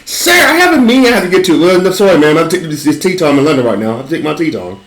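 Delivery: high hammed-up British tea talk; mock British accent. A fake British driver insisting on tea break, in a mock British accent. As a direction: play a fussy Brit craving tea. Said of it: "British accent".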